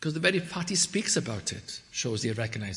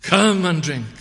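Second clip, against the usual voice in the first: loud, raised summons; calling invitation; 5 semitones higher, 10 dB louder than usual. Retold or imitated. Preacher voices Jesus inviting the crowd, calling out. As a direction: call them in from afar. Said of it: "he says to them".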